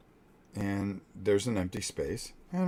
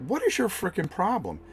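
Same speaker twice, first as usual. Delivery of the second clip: retold yell; 13 semitones higher, 4 dB louder than usual. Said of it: "I go".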